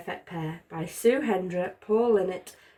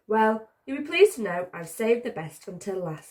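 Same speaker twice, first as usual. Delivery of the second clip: proud; 3 semitones higher than usual. Acted. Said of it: "said Ted proudly".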